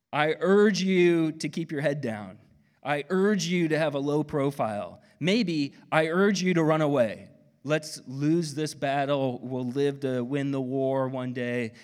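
urgent, nervous urging to play it safe; mock pleading. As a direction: ham up a fearful prisoner's advice. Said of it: "I would say".

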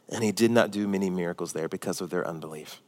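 plain low read-through of the verse; quiet reading. Shown as a demonstration. Pastor reading the verse to the church, softly. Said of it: "look at what it says".

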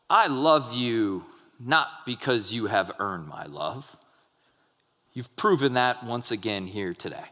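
sarcastic father scolding a son. Shown as a demonstration. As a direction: deliver the love line with a sarcastic sting. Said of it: "Correction is not a time for sarcasm".

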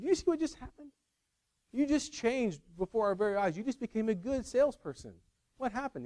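high-pitched incredulous retelling; imitated amazement. Retells Spade's amazed reaction.

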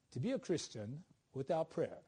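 put-on English accent for a quote; lightly acted English accent. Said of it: "that's my English accent 'cause he's, he's English".

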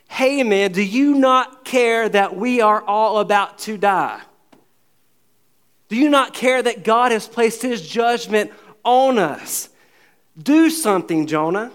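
loud, urgent, slowed plea to a sleeping man; desperate shout. Acted. Captain shouting down at sleeping Jonah, loud and desperate. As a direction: shake him awake with a desperate cry. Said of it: "this is what he says".

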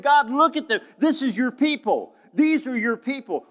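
high, loud, pleading cry to God; Daniel weeping before the Lord, high and loud; weeping plea. Acted. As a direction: cry it out like a heartbroken prophet. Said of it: "Daniel is just crying before the Lord".

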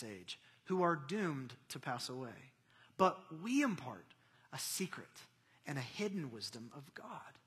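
measured, solemn Bible reading; scripture reading. Real, not acted. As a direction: read it out deliberately, pausing between phrases. Reads scripture aloud.

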